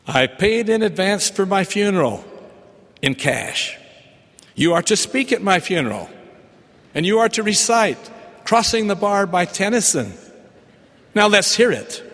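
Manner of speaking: lightly voiced Scottish brogue, firm and bossy; broad Scottish accent. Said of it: "with her thick Scottish brogue".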